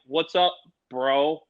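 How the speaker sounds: deliberately chill answer; playing it cool. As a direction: drawl it back, trying not to fanboy.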